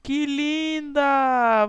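slow, drawn-out delight; admiring. Real, not acted. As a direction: stretch it out in awe. Admiring new vampire look.

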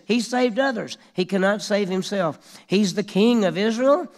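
high, loud taunting jeer; mocking. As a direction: throw the insult up at him. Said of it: "Now they're making fun of him".

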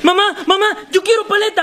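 put-on high, pestering kid voice; childish begging. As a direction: nag mom for a treat. Child begging mother for a lollipop. (niño rogando con voz aguda)

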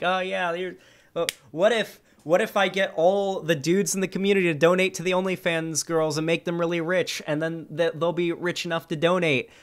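lightly acted excited brainwave; mock eager pitch. Streamer re-enacting his joke to chat, mock eager.

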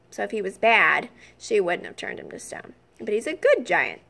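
lightly voiced faun, chatty and proud; fawn. The fawn Tumnus speaks.

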